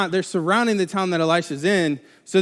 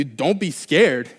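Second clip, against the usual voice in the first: slow, even reassurance; monotone calm prophet; 3 semitones lower, much slower than usual. Retold or imitated. Elisha repeating calm words to the servant, slow monotone. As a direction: drag it out, unbothered. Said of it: "really monotone voice".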